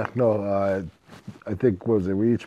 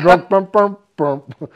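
imitated tuba beat; 5 semitones higher, 7 dB louder, slower than usual. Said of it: "it automatically".

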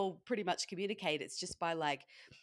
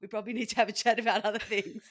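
laughing; 4 semitones higher, 6 dB louder, faster than usual. Real, not acted. Joking punchline while laughing.

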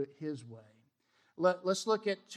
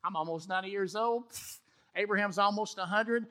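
scoffing; 2 semitones higher than usual. Retold or imitated. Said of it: "she hears it and goes".

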